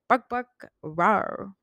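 slow imitated bark and growl; mimicked barking. Telling listeners how he was biting, mimicked barks. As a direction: play-act a dog's bark, drawn out. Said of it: "It was like".

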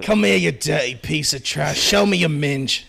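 light mock London thug; lightly voiced Cockney threat; British street accent. Friend playing a London street thug in a light British accent. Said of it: "do some English street garbage".

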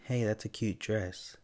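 easy, slow friendly compliment; casual compliment. Shown as a demonstration. Showing the host how to compliment a stranger's child, casually. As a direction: say it as a harmless, everyday compliment. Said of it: "it's all how you say things".

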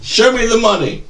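hammed-up rallying shout, tapering; Jerry Maguire. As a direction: holler it at your agent, then ease off.

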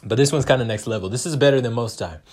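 words between sips of a shake; while sipping a drink. Real, not acted. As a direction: talk right after a gulp of a drink. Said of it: "If you guys can hear me drink this protein shake".

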